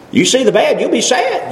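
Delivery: sad sung out high and light; sing-song rhyme. Shown as a demonstration. Preacher reciting his made-up rhyme, sing-song. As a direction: recite You see the bad, you'll be sad as a little rhyme with sad lifted high. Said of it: "Just kinda made that up".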